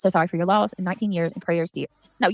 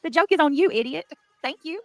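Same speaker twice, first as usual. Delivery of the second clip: gloating taunt; 8 semitones higher than usual. Real, not acted. Gloating at donor.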